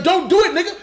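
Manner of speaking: hammed-up high plea through a laugh; laughing squeaky plea. Flash begging himself to stop, laughing high.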